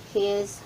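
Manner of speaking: HIS ending in a buzzed Z, he's. Shown as a demonstration. Teacher modelling how foreigners pronounce it, Z ending. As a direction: voice the last sound of HIS as Z. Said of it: "pronunciation nila".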